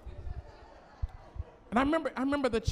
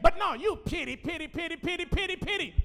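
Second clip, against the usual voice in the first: singsong taunting repeats, high; mock the word pity over and over; 5 semitones higher than usual. God mocking the preacher's self-pity, taunting.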